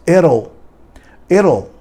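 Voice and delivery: "It'll" as eh-ro, flapped middle, vowel-like L; stretched L sound. Shown as a demonstration. Teacher modelling contractions for the class, drawn-out L. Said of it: "Você só aumenta o L".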